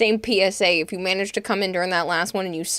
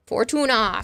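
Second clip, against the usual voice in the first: whispered shout; 4 semitones higher, 5 dB louder, slower than usual. Real, not acted. Calling out song title.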